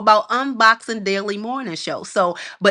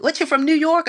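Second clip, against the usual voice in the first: higher questioning guess; mock LA stranger guessing; curious guess; 8 semitones higher than usual. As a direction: sound sure they've placed you. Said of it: "they would say".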